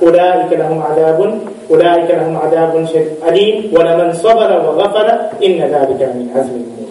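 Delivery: measured, even Arabic recitation; reciting scripture from the Quran in Arabic. Acted. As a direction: recite the verses in a level, continuous flow.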